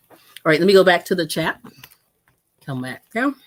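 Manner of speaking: talking while chewing celery; crunching celery. Real, not acted. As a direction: crunch through the words with a mouthful. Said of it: "sorry I'm crunching".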